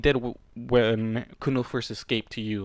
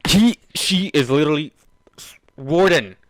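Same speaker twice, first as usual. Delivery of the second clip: real exasperation; 3 semitones higher, 10 dB louder than usual. Real, not acted. Reader exasperated at Warden, loud strained outburst. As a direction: choke on frustration before the rant. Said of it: "I'm fucking upset".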